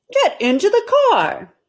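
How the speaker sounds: high, loud barked command; shouted order. Acted. Mister Rogers ordering Amelia into the car, loud high shout. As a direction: order her into the car, fed up. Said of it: "shouted Mister Rogers".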